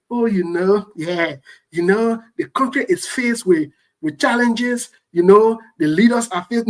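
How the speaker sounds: slow, drawn-out mock of an excuse-maker. Mocking the excuse-makers he calls out, in a slow lazy drawl. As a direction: parrot the excuses lazily. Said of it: "come tell yourself and say".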